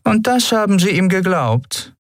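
can't believe it; incredulous. Acted. Captain incredulous. (ungläubige Kapitänin)

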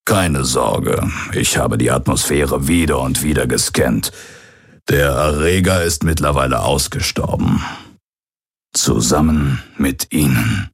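lightly voiced old pirate, matter-of-fact; understated explanation, a hint of old pirate. Old pirate explains the danger passed. (leicht angedeuteter alter Pirat, sachlich)

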